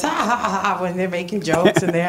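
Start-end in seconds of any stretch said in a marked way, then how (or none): 0.0-0.6 mock laughter. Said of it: "you're cracking up".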